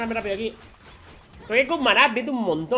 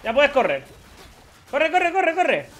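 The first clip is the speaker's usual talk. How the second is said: chasing taunt; 5 semitones higher than usual. Real, not acted. Taunting a fleeing enemy champion.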